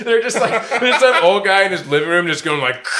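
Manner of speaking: high, helpless laughing retelling. Real, not acted. Cracking up describing the old chiropractor, laughing. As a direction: barely get it out through laughter.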